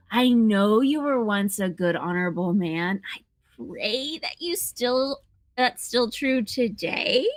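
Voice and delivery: a slow, unsure take; half-hearted hungry reading; hungrier, on request. Pretend. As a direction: play it hungrier for the director.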